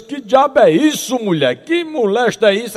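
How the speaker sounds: outraged husband. Acted. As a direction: stretch out the scandalized question. Husband catches wife cheating.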